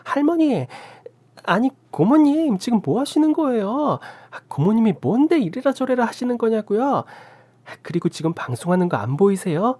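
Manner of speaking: high, sharp indignant protest; defiant talking back. A narrator's reading. Sister-in-law talking back to the aunt during her broadcast. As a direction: snap back at the old aunt. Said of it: "할머니한테 대들기 시작했어요".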